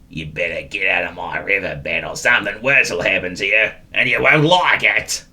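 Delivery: a grumpy eel grumbles from the river; gruff grumble. Acted. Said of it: "grumbled a particularly gruff voice".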